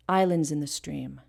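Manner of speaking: natural spoken stress on "islands" and "stream". Shown as a demonstration. Teacher showing natural emphasis, stressing "islands" and "stream". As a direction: lean on "islands" and "stream", skim "in the". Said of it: "it's probably going to be on the I of islands".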